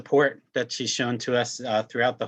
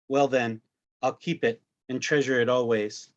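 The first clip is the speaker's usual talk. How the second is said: measured poetry-reading delivery; poem reading; 2 semitones higher than usual. Acted. Father reading his poem about his son, poetry recital. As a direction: read the poem aloud in deliberate phrases. Reads own poem aloud.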